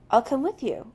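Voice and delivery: quick and eager offer. Acted. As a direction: jump in eagerly. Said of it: "almost eagerly".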